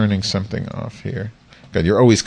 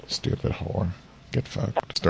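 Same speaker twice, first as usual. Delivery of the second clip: under breath; 15 dB quieter, slower than usual. Real, not acted. Muted mic, insulting caller.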